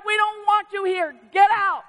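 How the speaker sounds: crying out. Retold or imitated. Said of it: "They cried".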